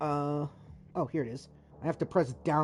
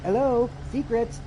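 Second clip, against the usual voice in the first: 1 mock greeting; 6 semitones higher than usual. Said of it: "I was like".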